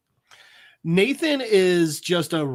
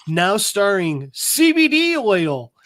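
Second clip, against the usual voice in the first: sign announcement; 3 dB louder, slower than usual. Acted. Reads out a movie store sign.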